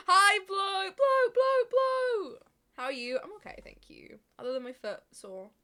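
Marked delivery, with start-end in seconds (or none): 0.1-2.4 high squeaky sing-song hello; squeaky greeting. Pretend. Streamer greets a chatter with a squeaky high call. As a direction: chirp the name up high like calling a pet.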